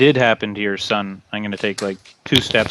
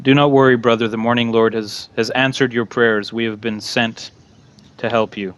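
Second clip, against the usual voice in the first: reassuring cleric. Acted. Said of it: "I'll say".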